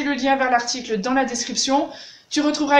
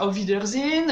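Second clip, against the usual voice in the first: Auf Wiedersehen with French R and stress; mock French version of Auf Wiedersehen; French-accented German; 3 semitones lower than usual. Shown as a demonstration. Teacher showing the wrong French-accented Auf Wiedersehen. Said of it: "avec l'accent français".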